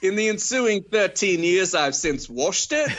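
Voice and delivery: high, laughing mock-casual voice; mock reviewer voice. Friends riffing on the reviewer, high laughing voice. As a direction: shrug it all off as him. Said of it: "continuing the reviewer parody".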